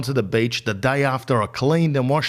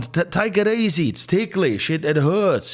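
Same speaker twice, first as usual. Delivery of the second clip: mock pained plea; 6 semitones higher than usual. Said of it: "I'm going".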